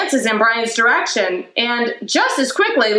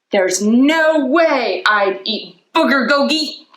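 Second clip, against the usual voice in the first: slow, teasing sneer; mock the food slowly; 4 semitones higher than usual. The speaker teasing Justin's lunch, slow mocking.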